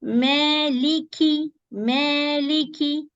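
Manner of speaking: Maliki Yawmiddin recited very slowly; slow recitation. Shown as a demonstration. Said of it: "The mim you have to pronounce with the dal".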